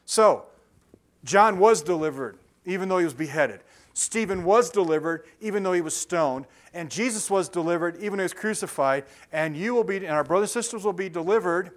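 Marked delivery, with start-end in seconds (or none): 0.1-10.6 preaching at full force; forceful preaching. Real, not acted. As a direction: build the refrain with weight on "was". Preaching climax on deliverance.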